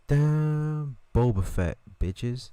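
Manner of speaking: hyped-up mock bravado; cocky boast. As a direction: show off the name like a star. Boasting as Boba Fett.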